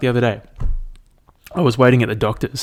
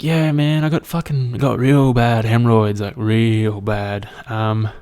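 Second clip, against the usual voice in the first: mock-earnest caller voice, somewhat higher; imitated oversharing caller; 3 semitones higher than usual.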